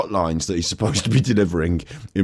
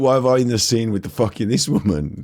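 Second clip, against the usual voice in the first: exasperated, fed-up, weary complaining tone; 3 semitones higher than usual. Voicing what the actor on screen is thinking: imitating someone fed up. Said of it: "He's fucking fed up of this shit".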